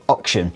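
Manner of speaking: auction as ok-shun; short-vowelled auction, like ox; Aussie pronunciation. Retold or imitated. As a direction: imitate an Australian auction with a short 'o'. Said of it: "heard my father-in-law say".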